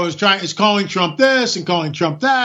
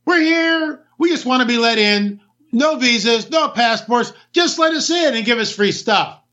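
mock migrant; 4 semitones higher than usual. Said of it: "and just go".

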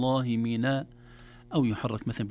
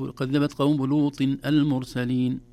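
slow recitation; 2 semitones higher, 5 dB louder, slower than usual. Shown as a demonstration. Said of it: "لماذا لم نقل".

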